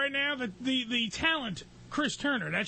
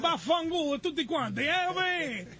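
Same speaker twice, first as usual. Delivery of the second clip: mock Italian accent. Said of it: "do it in the Italian accent".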